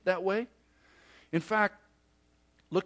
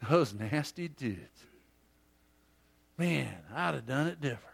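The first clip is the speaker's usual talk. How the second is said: smug mock judging; 3 semitones lower than usual. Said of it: "not to make us go".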